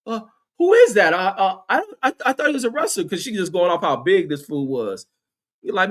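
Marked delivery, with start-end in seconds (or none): 0.0-3.0 put-on clueless white girl. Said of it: "The white girl is like".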